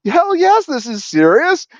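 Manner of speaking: angry manager. Retold or imitated. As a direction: snap back like a fed-up boss. Angry manager answers the question.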